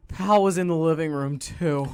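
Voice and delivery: mildly exasperated tired dad. Retold or imitated. Tired dad finding his catering manual destroyed, mildly exasperated. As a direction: sigh it out as a worn-out complaint. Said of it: "he just says, exasperated".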